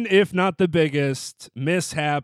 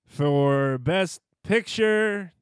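unsure; 2 semitones higher than usual. Retold or imitated. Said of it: "sound a little unsure".

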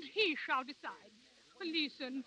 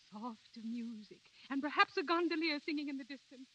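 dreamy hush. Acted. Dreamy romantic reverie.

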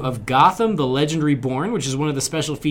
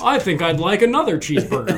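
American stereotype; 4 semitones higher than usual. Pretend. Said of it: "our American stereotype".

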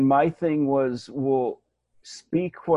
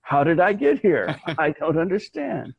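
bewildered character; 5 semitones higher, 4 dB louder than usual. Acted. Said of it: "I'm in nineteen sixty-six".

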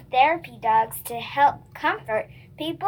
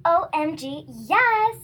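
excited agreement; 2 semitones higher, slower than usual. Acted. Scripted delight at puppy idea.

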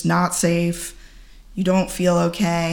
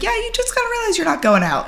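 friend's blunt advice; much faster than usual. Retold or imitated. Quoting friend's deadpan advice.

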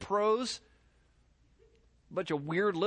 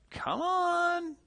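incredulous scoff; 12 semitones higher than usual. Real, not acted. Preacher scoffing, repeated.

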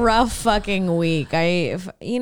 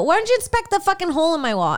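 sassy; 7 semitones higher, much faster than usual. Retold or imitated. Telling off the smoke inspectors.

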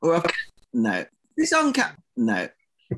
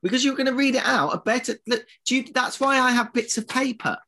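exasperated bickering; 9 semitones higher than usual. Real, not acted. Bickering over paper.

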